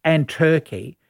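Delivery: speaking with a hand over the mic; muffled, as if the mic is covered. Real, not acted. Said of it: "You're covering your mic there".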